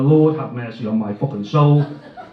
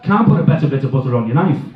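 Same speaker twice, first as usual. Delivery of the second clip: advert voice; 2 semitones lower than usual. Acted. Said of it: "all the old fucking advert type jokes".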